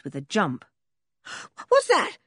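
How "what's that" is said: sudden high startled cry; boy jolted awake by a crowing cock, startled; startled Dick. A narrator's reading. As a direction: woken with a jump, startled. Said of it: "said Dick".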